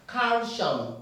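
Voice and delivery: "Calcium" said as kan-shom, wrong; "Calcium" with a sh sound in the middle. Shown as a demonstration. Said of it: "It's not calcium".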